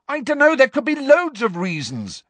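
loud, high, exasperated yell. A narrator's reading. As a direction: yell at her, out of patience. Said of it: "Harry yelled at her".

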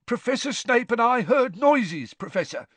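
high, eager tattling voice; whining caretaker. A narrator's reading. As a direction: report eagerly in a high whine.

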